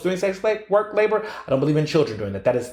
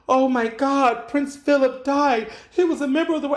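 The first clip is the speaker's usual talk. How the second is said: mock distraught fan of the royals; mock mourner; 11 semitones higher than usual. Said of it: "I did not do the whole".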